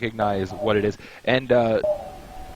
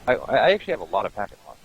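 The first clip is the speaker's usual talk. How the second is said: muffled mic; much faster than usual. Real, not acted. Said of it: "It just sounds muffled".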